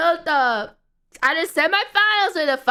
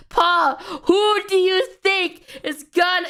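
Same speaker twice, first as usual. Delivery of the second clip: imitated fan question; 5 semitones higher than usual. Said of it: "He's like".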